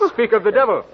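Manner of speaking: chuckling through the words; a light laugh as he greets him. Acted. Tomsky greets arriving Hermann.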